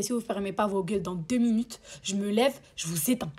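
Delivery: calm, low warning to noisy neighbours; lightly voiced stern man; man's threatening voice. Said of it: "il avait une voix bien".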